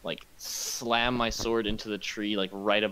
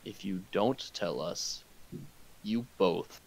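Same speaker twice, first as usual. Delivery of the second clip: threatening; 3 semitones lower, 5 dB quieter than usual. Acted. Threatening the captive.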